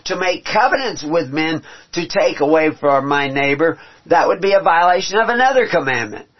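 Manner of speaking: preaching at full force; rising preaching. Real, not acted. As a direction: build it up to a fervent pitch. Preacher building to climax.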